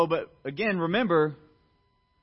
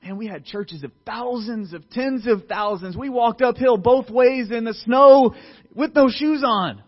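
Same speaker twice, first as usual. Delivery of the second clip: put-on louder, higher, slow boastful old man's rant; mocking boastful old-timer; 6 semitones higher, 7 dB louder than usual. Old men boasting to the younger crowd, hammed-up. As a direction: ham up a bragging old-timer. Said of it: "they're like".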